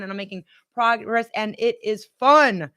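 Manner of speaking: firmer affirmation. Shown as a demonstration. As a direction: say it with conviction this time, with a falling finish on "fun". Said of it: "Say it with me".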